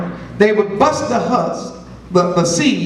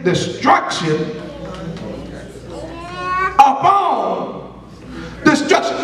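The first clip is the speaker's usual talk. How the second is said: slow word by word, long pauses between; emphatic rereading; 4 semitones higher, slower than usual. Real, not acted. Preacher answers "what does it say?", emphatic rereading. Answers own question, repeating the verse.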